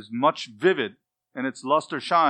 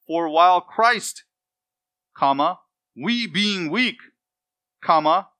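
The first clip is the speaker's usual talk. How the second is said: literal word-by-word reading; 3 semitones higher, 6 dB louder than usual. Shown as a demonstration. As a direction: spell out the word order phrase by phrase, punctuation included. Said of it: "So the literal word order reads".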